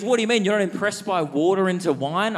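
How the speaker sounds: high, offended schoolkid; indignant kid. Retold or imitated. Kid defending the Bible.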